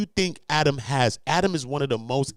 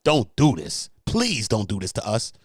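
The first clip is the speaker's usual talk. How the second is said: mock pleading husband; 3 semitones lower than usual. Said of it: "he don't have no coof enough to say".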